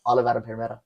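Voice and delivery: put-on Australian accent, run-together words. Imitating the Australian friend, Australian accent. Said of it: "do an Australian accent".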